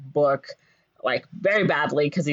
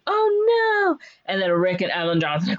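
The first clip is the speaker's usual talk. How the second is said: cartoonish high-pitched dread; mock panic. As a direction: cry out in hammed-up alarm. Voicing heroes as city collapses.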